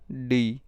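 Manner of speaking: डी said hard and loud, a heavy voiced D; dark D sound. Shown as a demonstration. Teacher showing students the dark D sound, loud and forceful. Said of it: "डी dark है".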